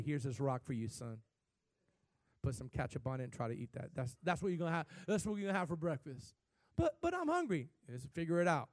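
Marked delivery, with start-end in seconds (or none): 0.0-6.3 mock stern father. Father voiced in Jesus' example. 6.8-7.7 put-on whiny child. Hungry son voiced in example.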